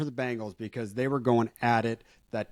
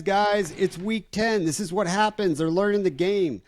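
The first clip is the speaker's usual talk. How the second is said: worked-up rant; 7 semitones higher than usual. Real, not acted. Calling out the fantasy footballers.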